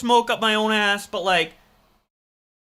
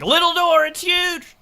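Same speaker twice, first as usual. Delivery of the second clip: high, loud amazed cry; surprised; 9 semitones higher, 6 dB louder than usual. Retold or imitated. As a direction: react in loud disbelief. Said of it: "what I was reacting to is like".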